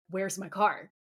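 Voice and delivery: mildly puzzled question; confused. Retold or imitated. Dean at the empty parking space, mildly confused. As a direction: ask it in mild confusion, not yet alarmed. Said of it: "Dean looks confused".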